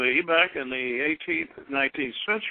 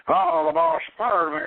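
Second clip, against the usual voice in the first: higher, louder hammed-up angry outburst; mock anger; 14 semitones higher, 5 dB louder than usual. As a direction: play a man fuming at being fired. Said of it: "and he's mad".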